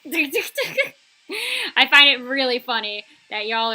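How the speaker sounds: slow, laughing through the words. Real, not acted. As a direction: laugh as you confess it's funny.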